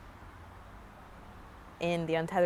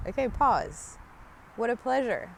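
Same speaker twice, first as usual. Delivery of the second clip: gentle self-reminder; 5 semitones higher, slower than usual. Shown as a demonstration. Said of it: "this Kabbalah notion of, like, pause".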